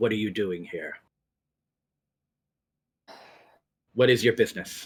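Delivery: loud, growling dragon voice. Narrator voices a character speaking in Draconic: growling. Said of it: "he sort of growls and".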